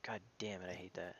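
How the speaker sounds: hushed, breathy curse under breath; whispered curse. Real, not acted. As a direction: swear quietly to yourself. Muttering after a mishap.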